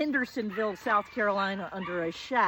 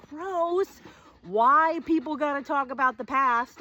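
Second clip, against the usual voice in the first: put-on teen scorn; 5 semitones higher, 4 dB louder than usual. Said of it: "I'm nineteen and I'm pretty".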